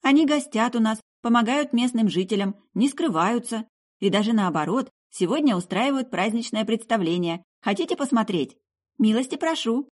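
high-pitched, emphatic explanation; young woman insisting, then inviting; indignant girl. Acted. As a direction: make your case in a lifted girlish voice. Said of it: "возмутилась девушка".

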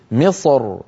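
مصر ending on a thick heavy r. Shown as a demonstration. Teacher shows the heavy reading of مصر. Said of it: "يفخم الراء".

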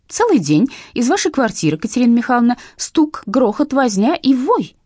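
loud, indignant grumbling that slows at the end; indignant complaint. A narrator's reading. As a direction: scold the neighbours for the noise. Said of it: "возмущалась генеральша".

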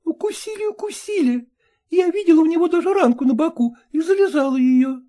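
high, quick, coquettish dog chatter; chattering lady dog. Acted. Ragulya excusing herself to Polkan, high quick chatter. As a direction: prattle on, pleased with yourself.

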